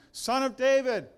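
desperate loud plea for mercy; crying out. Acted. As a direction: call out to be heard from a distance.

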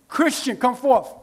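slow, ringing summons; commanding call. Acted. Pastor voicing God calling his son into life, slow commanding call. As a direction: call him out like a command from heaven.

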